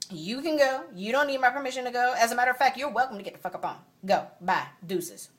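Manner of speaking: sassy dismissal; dismissive. Retold or imitated. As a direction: wave him off for good. Dismissing him.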